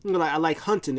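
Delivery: mildly acted-out happy enthusiasm; happy, retold. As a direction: propose it with cheerful eagerness. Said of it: "he starts getting happy".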